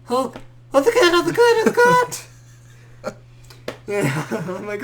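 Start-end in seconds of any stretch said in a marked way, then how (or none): 0.0-2.3 loud, high urgent yelling; a ten-year-old playing doctor, shouting dead serious; mock serious command. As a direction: bark the orders like it's life or death. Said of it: "sounding as deep voice as he could".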